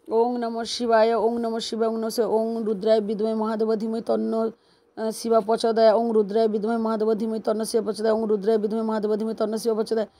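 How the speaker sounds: repetitive devotional recitation; mantra recitation. Real, not acted. Devotee repeating the puja mantra, rhythmic recitation.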